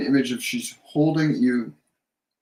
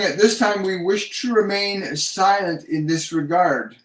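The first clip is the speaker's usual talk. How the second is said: higher, measured formal relay of spirits; channelled message; 5 semitones higher, slower than usual. Retold or imitated. Psychic relaying spirit guides to a viewer, channelled message. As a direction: slowly pronounce it as the guides' word.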